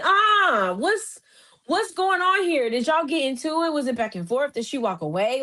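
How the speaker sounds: high-pitched, bewildered reaction; acted-out "what did I miss" bewilderment; baffled outcry. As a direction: cry out in confusion, then ease down. Acting out her baffled reaction.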